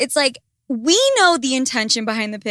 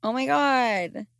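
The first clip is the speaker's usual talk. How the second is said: mock caption read; slower than usual. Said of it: "You can make a joke about something else".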